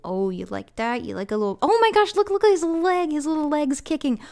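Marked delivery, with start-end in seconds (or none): 1.6-4.2 high, delighted gush over the pet; excited cooing. Real, not acted. Player gushing at the dog's kicking leg, high and thrilled.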